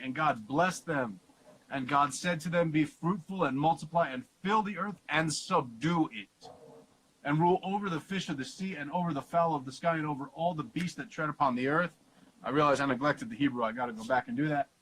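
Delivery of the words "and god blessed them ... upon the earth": measured Bible reading voice; scripture reading. Acted. Teacher reading Genesis aloud to class, measured reading. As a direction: read the verse out deliberately.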